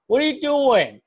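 high-pitched stern dad holler; stern imitated yell. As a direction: demand it like a father hearing a crash. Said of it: "like, stern".

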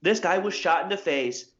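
mock a TV news teaser; lightly hammed newscaster; hokey news anchor. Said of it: "they just talk so hokey".

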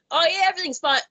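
abandoned Southern accent attempt, pitched high; half-tried Southern accent, high. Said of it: "I can't do my southern accent right now".

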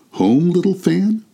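put-on high, slow boyish question. A narrator's reading. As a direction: ask in hopeful disbelief as a boy. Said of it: "returned the boy".

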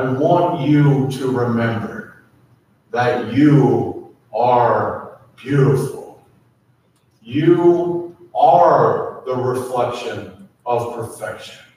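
slow and gentle, last word breathed; slow, intimate blessing, fading to a breath; slow tender affirmation. Acted.

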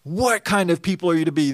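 What punched, falling like a statement; emphatic statement. Shown as a demonstration. Preacher recasting the question as a declaration, emphatic. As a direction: declare What kind of people, not asking. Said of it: "more of an emphatic statement".

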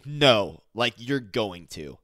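loud no, then slow and pointed; aggressive. Retold or imitated. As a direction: imitate a bossy demand, slowly. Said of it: "Like, very aggressive".

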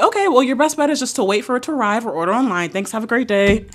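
polite professional phone manner; customer service voice. Retold or imitated. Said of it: "my customer service voice".

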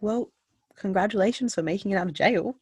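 high, perky and awkward congratulations; awkward cheer. Retold or imitated. A woman awkwardly congratulates a man just out of jail, perky. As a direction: blurt it out too brightly.

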